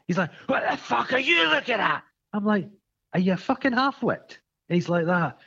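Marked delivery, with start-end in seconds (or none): 0.5-2.0 roofer's rage. Retold or imitated. Roofer shouting again. 3.1-4.4 scornful retort. Retold or imitated. His retort to roofer.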